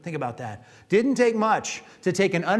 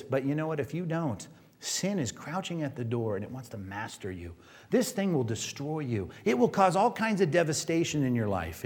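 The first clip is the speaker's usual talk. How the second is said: grave warning; 3 semitones lower, 6 dB quieter than usual. Retold or imitated. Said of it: "then he says this".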